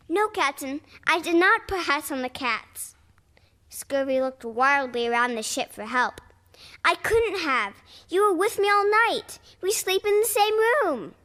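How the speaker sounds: high, pleading denial rising in pitch; desperate sailor pleading. Acted. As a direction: beg the captain to believe.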